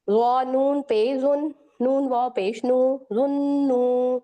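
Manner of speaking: जुन्नू slow, the nn held through the nose; nasal doubled n. Shown as a demonstration. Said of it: "नून तशदीद पे आवाज को नाक में ले जाएंगे".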